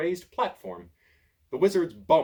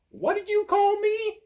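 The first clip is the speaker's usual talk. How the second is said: much higher, louder and slow; angry bark; 7 dB louder than usual. A narrator's reading. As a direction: bark it back, offended. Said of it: "barks Fox".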